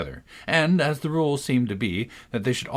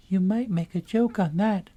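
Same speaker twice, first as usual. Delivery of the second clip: much higher little gnat voice; tiny voice; 9 semitones higher than usual. A narrator's reading. Tiny gnat at Alice's ear urging a joke, very high. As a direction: pester her with a pun. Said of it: "said the little voice close to her ear".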